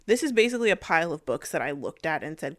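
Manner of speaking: ordinary talk, nothing marked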